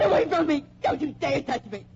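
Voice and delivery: high panicked push-away; frightened protest. Acted. Betty fends off Renfron, panicked and frightened. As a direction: keep him off you in panic. Fending off the killer.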